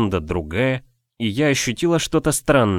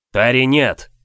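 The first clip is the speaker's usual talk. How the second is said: desperate shout; 2 semitones higher, 4 dB louder, slower than usual. Acted. Aran pulls her from danger.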